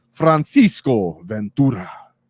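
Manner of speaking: said with a Mexican accent. Announcing a player from Portugal by name: Mexican accent. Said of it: "It's like a Mexican accent".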